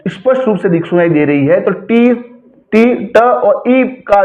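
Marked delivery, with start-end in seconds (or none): 1.6-2.9 "टी" lifted in pitch; raised, repeated "टी"; high-pitched stressed syllable. Shown as a demonstration. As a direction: sound out टी higher, as the stressed syllable. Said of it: "high pitch ले रही है".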